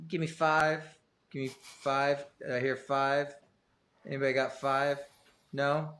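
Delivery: slow auctioneer. Pretend. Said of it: "slow auctioneer".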